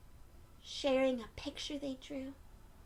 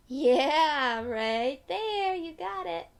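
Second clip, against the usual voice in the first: excited praise; 2 semitones higher, 10 dB louder, much slower than usual. Real, not acted. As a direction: cheer them on for finding it. Praising child who found jar.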